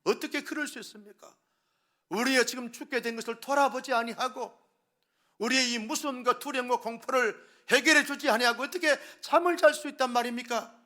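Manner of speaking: loud, high, indignant protest; angry protest. A narrator's reading. Angry disciples protesting to sleeping Jesus, loud and high. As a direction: shout your outrage at him. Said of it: "막 항의를 합니다".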